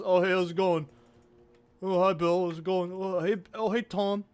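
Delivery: lightly put-on Wisconsin accent, chirpy small talk. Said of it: "sound like Wisconsin folk".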